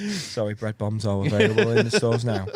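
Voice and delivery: jokey radio-advert read through laughter; mock radio voice. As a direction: play at a radio announcer, amused. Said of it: "trying to do that radio voice".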